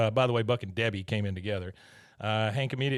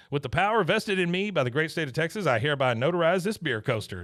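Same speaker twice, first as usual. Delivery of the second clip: Peggy; 4 semitones higher, faster than usual. Retold or imitated. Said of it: "she goes".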